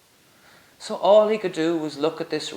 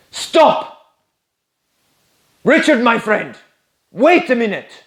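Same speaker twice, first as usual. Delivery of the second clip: louder, higher, pleading; urgent call; 7 semitones higher, 8 dB louder than usual. Acted. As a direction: stop him at the door. Master begs Richard to stay.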